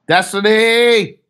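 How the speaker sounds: long drawn-out call of Destiny. Real, not acted. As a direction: call his name out loud and slow, high. Calling out to absent friend.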